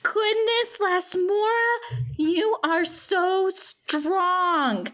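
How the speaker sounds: put-on slow, drawn-out childlike amazement; mildly awestruck admiration; awed delight. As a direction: gush with wonder, stretching the last words. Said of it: "Emrys's eyes light up".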